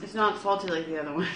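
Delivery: talking through a mouthful of bread; mouth full. Real, not acted. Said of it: "Now that you got food in your mouth?".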